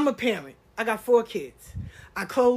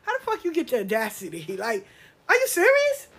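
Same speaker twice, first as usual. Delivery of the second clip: mock laughing outrage; laughing disbelief; 2 semitones higher, faster than usual. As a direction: laugh at their audacity. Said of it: "And I start laughing like".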